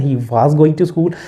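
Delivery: each word drawn out slowly for learners; teacher modelling the sentence slowly for students, slow and clear; slow model sentence. Shown as a demonstration. Slow, careful dictation pace. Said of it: "उसके बाद आपके slowly".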